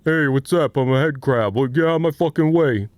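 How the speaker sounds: lightly voiced snappy crab creature; a hint of a gruff little crab; head crab voice. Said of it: "Can I have a head crab impression".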